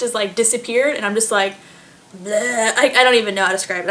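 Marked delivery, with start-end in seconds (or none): 2.2-2.7 bleh noise. Real, not acted. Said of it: "I have to use sound effects".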